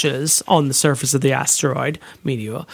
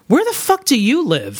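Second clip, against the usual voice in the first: laughing disbelief; 6 semitones higher than usual. Retold or imitated. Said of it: "I'm like".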